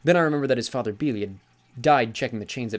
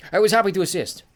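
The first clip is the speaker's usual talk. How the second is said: put-on genial old sea god; 10 semitones higher, 8 dB louder than usual. Sea god corrects Magnus, jovial and higher. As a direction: lean on Granddad with amused mock offence. Njord voiced in story.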